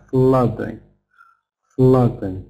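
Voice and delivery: "flooding" with a short ah as in luck; ah vowel, not u. Shown as a demonstration. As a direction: say "flooding" as FLAH-ding, stressed first. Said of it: "ah sound, not u".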